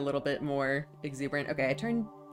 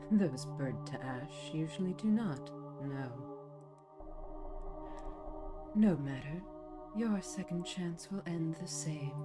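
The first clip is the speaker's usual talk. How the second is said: softly menacing, slow villain queen; a quiet, cold villain threat; soft Dark Queen; slower than usual. Acted. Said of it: "very soft Dark Queen".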